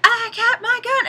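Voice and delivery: hammed-up cry of a woman waving her gun; mock heroic lady. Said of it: "and she's like".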